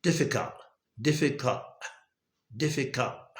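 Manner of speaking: "difficult" ending in a catch, final t dropped; glottal stop. Shown as a demonstration. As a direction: stop the throat after "difficul". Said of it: "শেষের দিকে এলটিটা বাদ পড়ে গেছে". ("difficult" এর শেষের টি বাদ)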